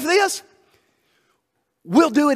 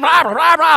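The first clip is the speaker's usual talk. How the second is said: mock babble; 7 semitones higher, 6 dB louder than usual. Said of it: "they're having a conversation".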